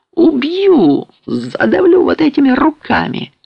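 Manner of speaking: high-pitched raging cry; frenzied threat. A narrator's reading. Raving patient threatens attackers with his hands, frenzied.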